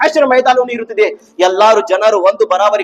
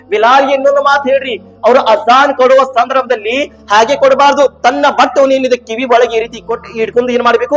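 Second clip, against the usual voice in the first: raised, insistent sermon voice; forceful preaching; 5 semitones higher, 5 dB louder than usual. Real, not acted. Preacher recounting to the faithful how the azan began, forceful preaching. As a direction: drive the story home to the congregation.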